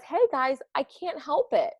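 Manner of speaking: a mildly voiced sulky fish; pouty fish voice. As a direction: whine it like a grumpy fish. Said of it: "But he says".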